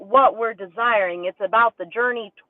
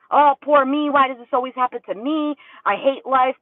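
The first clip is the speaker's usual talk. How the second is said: mock self-pity. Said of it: "Victim mentality".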